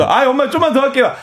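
put-on high-pitched kid begging mom; pleading child. 엄마에게 조르는 아이 흉내. (엄마에게 높은 목소리로 조르는 아이 흉내)

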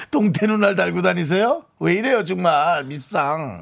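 harsh, scolding read of 동태 눈알. Shown as a demonstration. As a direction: bite down on 동태 with a scolding rise. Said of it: "어, 심하게 얘기해".

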